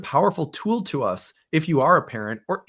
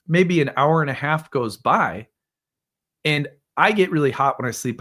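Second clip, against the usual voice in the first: normal talking voice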